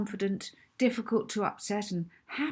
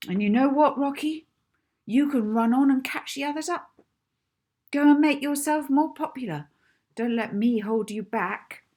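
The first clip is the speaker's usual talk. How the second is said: put-on wounded girl lashing out louder and higher; rising bitter anger; hurt fury; 4 semitones higher, 7 dB louder than usual. Molly hurt and furious.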